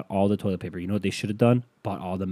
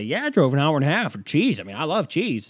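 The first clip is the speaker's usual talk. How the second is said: cheese fan; 7 semitones higher, 5 dB louder than usual. Pretend.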